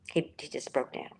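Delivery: choked up, voice breaking; fighting back tears; crying. Real, not acted. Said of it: "I'm sorry, I'm crying".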